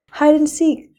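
excited shout. A narrator's reading. Princess starting a game at the ball, excited shout. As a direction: shout it out as you run to play. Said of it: "she shouted".

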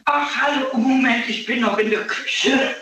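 echoey room. Real, not acted. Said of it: "es klang wie der Porzellanthron".

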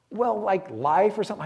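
a hint of a teen girl guessing; fourteen-year-old girl voice. Girl guessing what her name means, mild teen girl voice. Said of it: "That's my fourteen-year-old girl voice".

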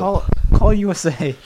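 loud excited call; shouting. Pretend. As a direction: yell the network name. Shouting network name.

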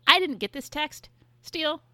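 loud, high-pitched indignant grievance; miffed complaint. Real, not acted. Friend complaining about no invitation to the hotel room, miffed. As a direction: protest loudly at being left out. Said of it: "Kinda pissed about that".

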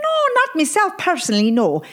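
high fast Irish voice; sheepish stage Irishman; Irish accent. Acted. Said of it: "admitted the Irishman".

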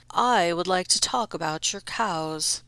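smooth aristocratic voice; lordly Count. Acted. Count addresses the farmer, lordly. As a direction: speak from the shadowed carriage.

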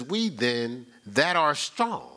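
slow, measured reading of the verse; slow solemn Bible reading; scripture reading. Real, not acted. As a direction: read it out slowly, weighing each word. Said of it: "It says".

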